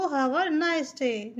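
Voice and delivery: very slow and deliberate; drawn-out teacher demo; slow model sentence. Shown as a demonstration. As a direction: spell the sentence out slowly for learners. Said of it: "आपका दिन शुभ हो".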